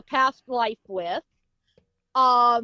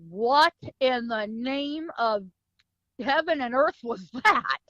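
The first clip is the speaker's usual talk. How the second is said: slow, drawn-out retold bewilderment; bewildered amazement. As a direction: stretch the question out in disbelief. Retold reaction to gunfight.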